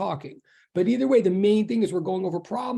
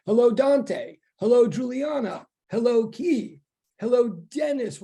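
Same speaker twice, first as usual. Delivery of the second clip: higher-pitched roll of hellos, each falling away; calling out greetings; 4 semitones higher, slower than usual. Real, not acted. Teacher greeting students as they come into online class, calling out. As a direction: greet each one by name in a raised, lilting call.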